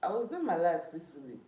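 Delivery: annoyed venting. Real, not acted. Complaining to viewers after the row.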